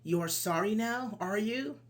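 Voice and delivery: mildly annoyed challenge, tag rising; a touch of demonstrated anger; angry. Shown as a demonstration. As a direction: challenge them with a rising "are you?". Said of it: "It's like anger".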